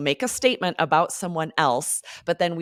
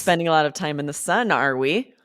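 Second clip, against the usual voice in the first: cheeky tease. Shown as a demonstration. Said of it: "so much more fun to say it this way".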